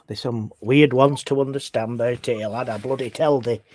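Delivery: broad northern English dialect demo. Shown as a demonstration. Englishman shows Americans his local talk, thick northern dialect. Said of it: "That's a bit of northern".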